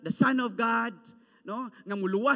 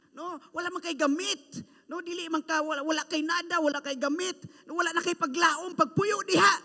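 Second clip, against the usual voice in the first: mocking rebuke; 4 semitones higher than usual. Crowd keeps rebuking.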